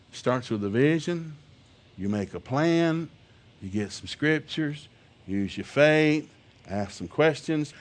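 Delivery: slow, deliberate preaching steps; slow emphatic list. Acted. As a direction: lay out each step slowly. Preacher listing steps slowly.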